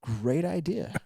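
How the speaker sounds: high, mock-sweet sarcasm; sarcastic. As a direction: pitch it up like a falsely helpful suggestion. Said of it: "I said it so sarcastic".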